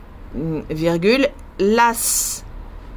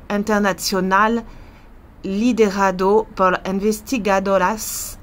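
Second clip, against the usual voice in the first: French accent in Spanish. Real, not acted. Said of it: "ça va être vraiment l'accent français quand je parle espagnol".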